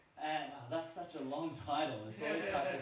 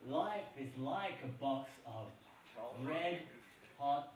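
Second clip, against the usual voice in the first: Forrest Gump style quote; 4 semitones lower than usual. Retold or imitated. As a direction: imitate mama's saying like a movie Southern American. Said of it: "My mama always said".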